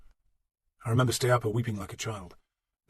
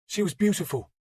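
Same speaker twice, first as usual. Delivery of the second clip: wistful; 8 semitones higher than usual. Acted. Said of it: "he said wistfully".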